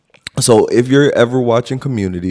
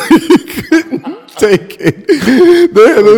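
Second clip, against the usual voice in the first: laughing; 6 dB louder, much slower than usual. Real, not acted. Laughing at the funny episode.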